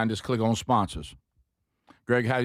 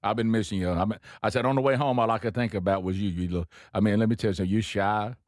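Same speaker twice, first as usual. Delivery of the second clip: put-on Cajun accent; 3 semitones lower, faster than usual. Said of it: "He's done picked the slang up".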